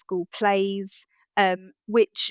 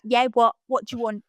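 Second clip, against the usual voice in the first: put-on Essex accent; 3 semitones higher, faster than usual. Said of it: "detect my Essex twang".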